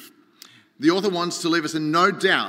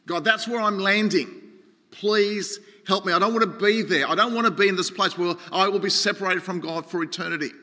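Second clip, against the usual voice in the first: mildly raised, urgent plea to God; pleading prayer; 3 semitones higher than usual. Acted. Preacher voices Jonah begging God not to abandon him, mildly pleading. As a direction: plead not to be left there. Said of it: "He says".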